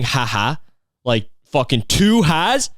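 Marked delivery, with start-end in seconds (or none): 0.0-0.6 dry flat ha ha. Retold or imitated. Mocking a dry texter's short ha ha, deadpan. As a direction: read the "Ha ha." as a bored, flat texter. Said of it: "they just keep saying".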